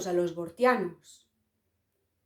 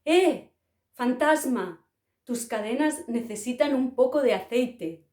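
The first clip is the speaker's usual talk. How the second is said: higher, louder call, then settling into mocking; mocking shout; 4 semitones higher, 4 dB louder than usual. A Bortian jeering at the clanking ghost, loud mocking shout. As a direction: yell at the ghost, teasing it. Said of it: "un bortiano le gritaba".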